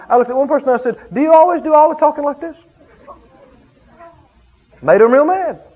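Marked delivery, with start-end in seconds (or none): 1.1-2.6 loud, higher challenge; loud pointed rebuke; strong rebuke. Retold or imitated. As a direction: put the talker on the spot. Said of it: "be a little strong".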